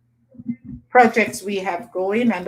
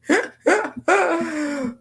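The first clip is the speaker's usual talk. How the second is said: high bright laugh; burst of laughter; 10 semitones higher than usual. Real, not acted. Laughing at chat comment.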